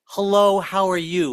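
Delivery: measured, demonstrative hello; polite greeting. Shown as a demonstration. Comedian showing caller how to begin, polite greeting. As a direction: model a courteous phone greeting. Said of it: "might be a little more polite".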